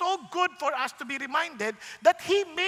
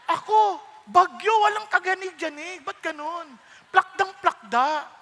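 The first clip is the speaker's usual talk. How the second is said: self-mocking complaint; 4 semitones higher, 6 dB louder, slower than usual. Mocking own flat nose.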